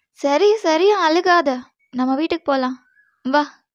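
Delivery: tender comfort to a weeping husband. Acted. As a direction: gently hush his tears, pitch lifted. Soothing him as he cries.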